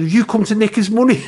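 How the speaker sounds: laughing quip. Retold or imitated. Carol's cheeky quip, retold.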